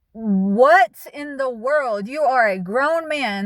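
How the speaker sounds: exasperated disbelief. Real, not acted. Exasperated at grown man.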